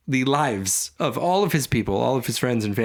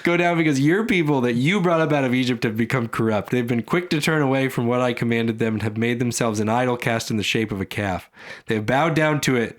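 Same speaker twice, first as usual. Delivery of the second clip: stern God voice. Acted. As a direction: read it like a fed-up father. God voiced reading scripture.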